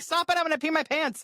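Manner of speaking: high, helpless mock-laughing plea; imitating laughing mom. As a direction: plead like someone laughing too hard. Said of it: "she just started laughing so hard".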